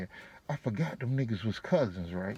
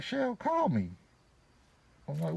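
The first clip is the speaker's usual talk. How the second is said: ordinary talk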